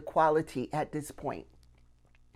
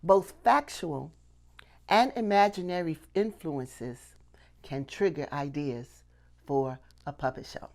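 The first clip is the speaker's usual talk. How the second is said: slow emphatic repeat. Shown as a demonstration. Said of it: "I'm gonna say that again".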